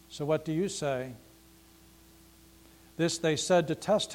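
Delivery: measured public reading of scripture. Acted. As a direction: read the gospel to the congregation, unhurried. Reads the gospel passage aloud.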